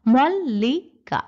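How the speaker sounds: মল লি কা said slowly, syllable by syllable; showing the short, tight syllables of মল্লিকা; syllables spelled out. Shown as a demonstration. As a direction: tap out মল লি কা evenly. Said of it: "সেখানে এভাবে উচ্চারণ হচ্ছে না".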